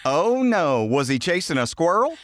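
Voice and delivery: high, put-on Tennessee accent; mock Southern concern. Asking the neighbor about the runaway dog, high mock Southern accent. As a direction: play a worried Southern neighbor, hammed up. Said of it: "since we were talking like that".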